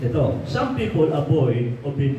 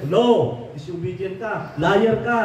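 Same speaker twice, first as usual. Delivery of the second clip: forceful rebuke; 6 semitones higher, slower than usual. Acted. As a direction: hurl the accusation at them. Pastor denounces excuses.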